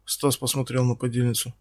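ordinary delivery

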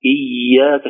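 إياك with the y held, not forced; soft doubled ya. Shown as a demonstration. Teacher pointing out the ya, held softly in إياك. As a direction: let the double y of إياك flow. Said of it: "شايف الياء".

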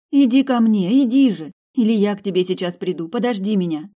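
mother crying out for her daughter to come; desperate call. A narrator's reading. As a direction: call her back with all your strength.

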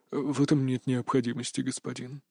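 a beaten servant, barely getting the words out; crestfallen. A narrator's reading. Servant Howard confesses to his boss, crestfallen and quiet. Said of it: "совсем поникшим голосом добавил Говард".

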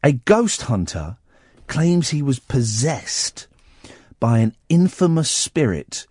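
slow, deliberate ghost-story read; newspaper story reading. Real, not acted. Radio host reading a haunting story to co-host, deliberate. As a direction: read it out with spooky pauses.

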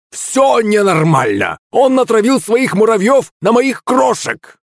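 put-on high, wailing old man's complaint; high-pitched hysterical accusation; outraged cry. A narrator's reading. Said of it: "закричал старик".

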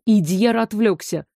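plain reading voice

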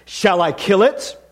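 slow, deliberate angel's question; solemn angel. Acted. Angel asking the ghost about the lizard, solemn. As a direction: ask it slowly, weighing each word.

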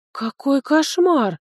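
slow stricken moan. Acted. Heroine hears the lord saw her, moans slowly. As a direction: drag it out slowly in dismay. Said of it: "простонала я".

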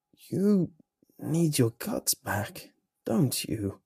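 weary, slow resigned rasp; defeated creature voice. A narrator's reading. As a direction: say it like it has given up. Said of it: "sounding defeated".

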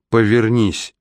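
firm command from a frail grandmother; old woman, voice suddenly steady; suddenly stronger old voice. A narrator's reading. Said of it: "Голос бабушки неожиданно окреп". (окрепший голос бабушки)

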